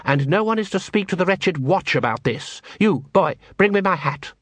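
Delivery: peremptory master's voice; exacting guild master. Plays Cruces giving orders.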